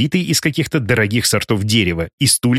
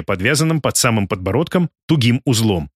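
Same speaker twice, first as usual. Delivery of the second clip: ordinary delivery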